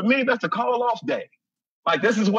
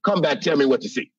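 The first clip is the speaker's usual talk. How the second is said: dog's voice; 5 semitones lower than usual. Pretend. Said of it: "My dog looked me right in the face and said".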